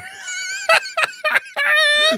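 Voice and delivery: high-pitched howling laugh; cracking up at his own tree story, shrieking with laughter. Real, not acted. Howling laugh at his own story.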